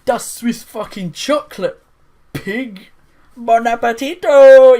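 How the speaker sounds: high, loud cartoonish alien growl, ending in a big shout; monkey alien voice. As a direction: ham it up like a crazed alien boss. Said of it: "I was half expecting this monkey to go".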